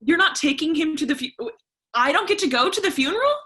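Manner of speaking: can't believe she's left out; shocked indignation. Acted. Daughter learns she'll miss grandpa's funeral, stunned and protesting.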